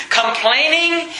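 deliberate pulpit emphasis; emphatic preaching. Real, not acted. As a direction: hammer the point home word by word. Drives home the sermon's point.

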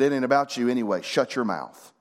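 gentle but firm reproof; kindly rebuke. Retold or imitated. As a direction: correct them kindly without raising your voice. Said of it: "you know what he said very kindly".

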